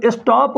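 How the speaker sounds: "स्टॉप" said slowly as one stressed syllable; stressed syllable demonstration. Shown as a demonstration. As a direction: sound out "स्टॉप" deliberately, weight on its vowel. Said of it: "इस पे stress पड़ रहा है". ("स्टॉप" पर ज़ोर देकर, धीरे से)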